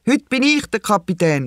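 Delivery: put-on high, proud child's call; proud little girl calling out. A narrator's reading. Lisa at the steering wheel, calling out proudly. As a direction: announce it like a small captain. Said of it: "ruft sie".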